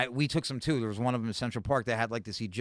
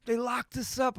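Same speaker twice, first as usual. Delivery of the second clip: hammed-up high-pitched lament; overly emotional friend; 12 semitones higher, slower than usual. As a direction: imitate him getting all worked up, pitch way up. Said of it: "overly emotional about everything".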